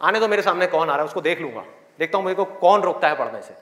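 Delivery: low, defiant refusal; acted defiance. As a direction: stand your ground against all comers. Acts student defying everyone. (अड़ियल चुनौती भरा लहजा)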